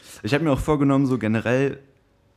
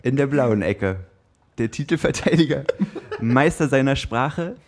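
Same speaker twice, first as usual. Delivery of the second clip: slow, drawn-out fight introduction; boxing ring announcer; slower than usual. Acted. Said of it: "du hast dich übertroffen".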